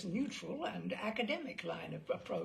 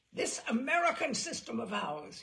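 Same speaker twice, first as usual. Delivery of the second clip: louder speech-making start; mock shout; 2 semitones higher, 4 dB louder than usual. Gangster orating at the reporter, mildly raised. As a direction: begin the oration. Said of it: "he shouted".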